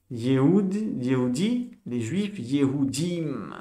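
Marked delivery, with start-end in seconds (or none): 2.4-3.5 Yehudim drawn out slowly, leaning on the im ending; slow example word. Shown as a demonstration. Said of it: "Le im, ça veut dire".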